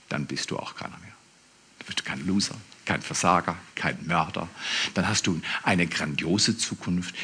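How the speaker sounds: soft, near-whispered words of God; soft whispered reassurance; hushed promise. Acted. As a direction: breathe the promise quietly to the listener. God's promise, whispered softly.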